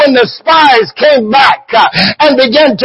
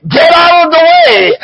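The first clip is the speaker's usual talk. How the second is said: pitched up, pressing the line home; rising exhortation; 6 semitones higher than usual. Real, not acted. Preacher urging believers to stop interfering with God, raised exhortation. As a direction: lift it high and drive the point.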